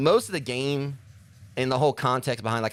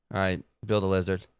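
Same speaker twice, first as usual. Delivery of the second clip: Cockney accent; 3 semitones lower than usual. Shown as a demonstration. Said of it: "now I can actually do this accent".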